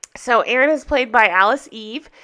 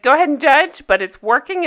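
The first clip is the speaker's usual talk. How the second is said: defiant quote; 4 semitones higher, 5 dB louder than usual. Retold or imitated. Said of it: "And she said".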